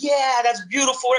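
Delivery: high-pitched imitated audience reaction; mock-emotional cheer, pitched well up. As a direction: imitate a crowd moved and thrilled. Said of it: "the audience gets emotional, like".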